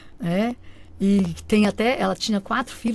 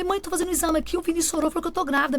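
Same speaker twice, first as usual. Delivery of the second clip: retold tearful telling; 7 semitones higher, faster than usual.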